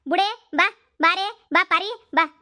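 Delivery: storming off, calling his wife to follow; angry calling out. Acted. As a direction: summon her sharply in disgust. Father calls wife to leave.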